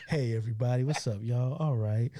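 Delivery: a hint of the super calm friend; imitating Mikey. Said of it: "Like, this is him".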